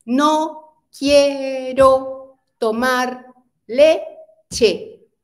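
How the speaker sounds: put-on a child grumbling that he won't drink his milk; cranky child. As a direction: play a sulky kid refusing milk. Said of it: "un niño que puede ser que está como enfadado".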